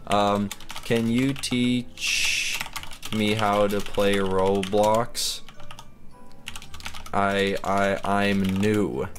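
slow, timid newcomer asking for help; shy noob voice. Pretend. Noob asking a stranger for help, slow and timid. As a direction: drag it out like a nervous beginner.

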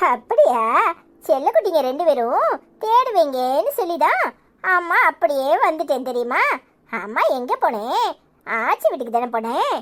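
low, tender reassurance; soothing mother. Acted. Mother to her darlings after returning, tenderly soothing.

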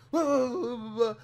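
loud, high-pitched imitation of phone yelling; mock yelling. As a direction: imitate her blowing up at someone. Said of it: "like, yelling at somebody".

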